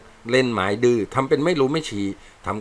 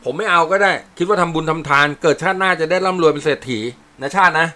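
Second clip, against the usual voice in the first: voiced soldier dialogue; 6 semitones higher, 4 dB louder than usual.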